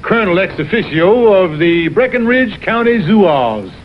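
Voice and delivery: grand, showy Southern colonel; pompous colonel. Acted. Con man plays a fake colonel to the salesman, grandly. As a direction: puff up as a fake Southern gentleman. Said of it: "Watch the old colonel go into action here".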